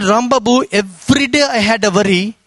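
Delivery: low, solemn auntie voice; suddenly serious. Retold or imitated. Auntie confiding her worry to the preacher, suddenly serious. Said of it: "Suddenly she became serious".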